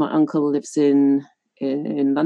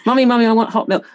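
put-on demanding child; 5 semitones higher, much faster than usual. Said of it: "I used to demand milk from my mother".

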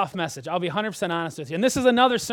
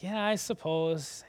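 slow, quiet, reluctant shrug; half-hearted shrug; 4 dB quieter, slower than usual. Pretend. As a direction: mutter it like you barely care. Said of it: "I don't get the idea here that Isaiah was like".

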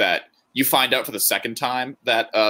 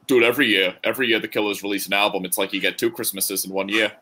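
slipping into a light Boston accent. Real, not acted. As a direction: let a hint of Boston creep into the vowels. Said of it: "I said that in a Boston accent".

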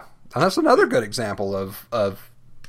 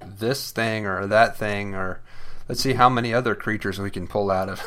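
mocking quote. Mocking the show's monsters.

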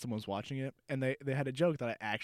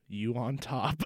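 big mock cartoon delivery; cartoon punchline voice; 2 semitones lower, much slower than usual. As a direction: stretch it way out, pitched up. Punchline of retold cartoon joke.

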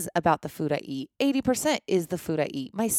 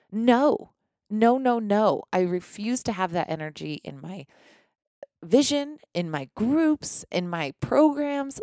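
firm refusal; 2 semitones higher than usual. Retold or imitated. Coach refusing negative energy.

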